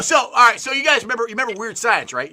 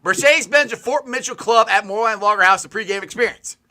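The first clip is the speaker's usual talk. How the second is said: announcer read; 4 semitones higher, 4 dB louder than usual. Shown as a demonstration. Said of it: "It just rolls off the tongue".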